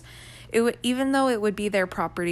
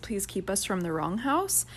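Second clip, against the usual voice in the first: earnest prayer; 2 semitones lower than usual. Retold or imitated. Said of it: "this was my prayer".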